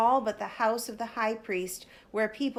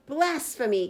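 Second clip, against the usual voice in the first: outraged cry; 4 semitones higher, 4 dB louder than usual. Acted. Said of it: "cried the high priest".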